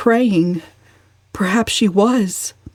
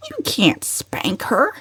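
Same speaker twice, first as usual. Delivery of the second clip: agitated; 4 semitones higher, 5 dB quieter, slower than usual. A narrator's reading. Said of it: "Cousin Stickles was much agitated".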